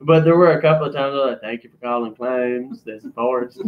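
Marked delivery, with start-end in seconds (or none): 1.4-3.6 put-on Southern phone greeting, stretched out; Forrest Gump. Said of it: "weird ways most of the time".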